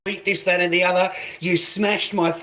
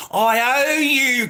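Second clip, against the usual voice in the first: high, loud, slow mocking; sarcastic; 7 semitones higher, 4 dB louder, much slower than usual. Real, not acted. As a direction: stretch it out in mock gratitude. Sarcastic drawn-out shout.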